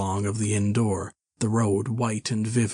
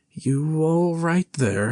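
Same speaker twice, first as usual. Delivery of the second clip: slow, higher, sharp demand; sharp question; 6 semitones higher, slower than usual. Acted. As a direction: call out sharply through the door. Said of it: "asked Mister Hall sharply again".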